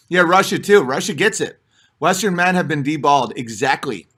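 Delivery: normal talking voice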